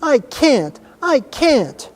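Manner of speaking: high-pitched tearful protest; sobbing. A narrator's reading. Hysterical boy pleads that he is unable, sobbing. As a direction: wail it helplessly. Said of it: "he sobbed".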